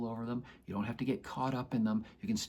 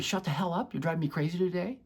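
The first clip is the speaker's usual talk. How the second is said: mock yelling at a child; 5 semitones higher, faster than usual. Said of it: "Do you yell at her?".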